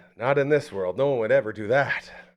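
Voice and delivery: normal talking voice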